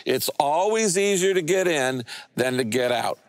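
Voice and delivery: whole congregation reciting in unison; said aloud together. Real, not acted. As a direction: everyone says it together, steady and even. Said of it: "let's say that aloud together".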